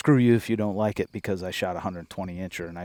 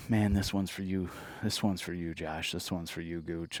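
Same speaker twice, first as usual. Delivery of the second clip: heartfelt dedication; 5 dB quieter than usual. Retold or imitated. Private dedication to lost friend.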